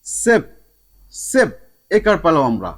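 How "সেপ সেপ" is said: "সেপ" with an e sound, higher pitched; short e vowel. Shown as a demonstration. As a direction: isolate the syllable "সেপ" with its e vowel. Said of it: "একারের মতো".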